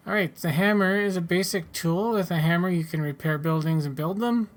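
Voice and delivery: measured instructional reading; tutorial read-out. A narrator's reading. Player reads hammer crafting instructions aloud, measured tutorial read-out. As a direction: read it out like an in-game guide.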